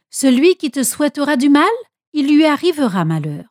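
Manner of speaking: bénédiction proclamée avec ampleur; déclaration solennelle. A narrator's reading. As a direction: proclame la bénédiction, voix portée. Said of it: "et déclara solennellement". (bénédiction solennelle et appuyée)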